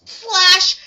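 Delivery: loud, high one-word exclamation; punched-out storytelling shock; sudden dramatic burst. Retold or imitated. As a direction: make it a jump scare. Sudden event announced dramatically.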